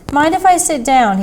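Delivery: put-on friendly stranger asking in a thick Indian accent. A narrator's reading. Stranger at bus stop asks the lecturer for a seat, thick Indian accent. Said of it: "he said with a thick accent".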